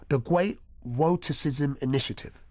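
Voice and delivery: "Woticism" with a W sound instead of R. Shown as a demonstration. Naming the council scheme with a W for R. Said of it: "suffered with roticism".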